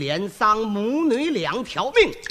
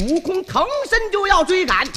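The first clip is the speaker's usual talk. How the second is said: ordinary delivery, nothing marked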